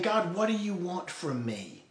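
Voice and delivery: mildly sarcastic, put-upon question. Acted. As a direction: push back at God with light sarcasm. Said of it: "do you hear the sarcasm in their voice".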